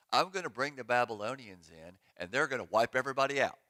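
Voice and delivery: breezy mock-cheerful solution, last part fast; sarcastic. Pastor mocking the Lord's answer, sarcastic breezy tone. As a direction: toss it off like a great idea. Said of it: "That's just my sarcasm".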